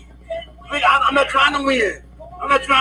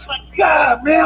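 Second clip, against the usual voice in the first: panicked shout; 3 semitones higher, slower than usual. Real, not acted. Panicked man pleading with police.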